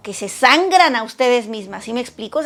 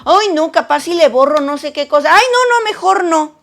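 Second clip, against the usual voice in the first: fearful dithering; 3 semitones higher, 4 dB louder than usual. Retold or imitated. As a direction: talk yourself out of it in a small panic. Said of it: "no accionan por temor". (con miedo, titubeando, subiendo el tono)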